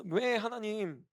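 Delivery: lightly acted plaintive plea, first words drawn out; mock tearful protest. Believer protesting to God over a blocked path, mildly plaintive. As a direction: plead as if starting to cry, lightly. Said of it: "우리는 울기 시작합니다".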